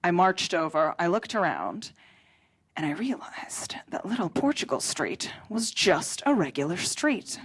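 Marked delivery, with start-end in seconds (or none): 2.8-7.4 hushed, deflated reveal; whispered letdown. Real, not acted. Telling the crowd the street is ordinary, hushed.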